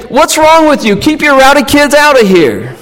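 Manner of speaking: high, sniffy scolding; snooty disdain. Retold or imitated. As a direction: shoo the rowdy kids away. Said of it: "looking down at them, thinking and saying".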